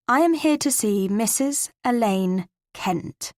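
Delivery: put-on slow, every word pronounced carefully in an emphasized English accent. To the gate guard, slow and deliberate English accent. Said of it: "I pronounced each word carefully, emphasizing my English accent".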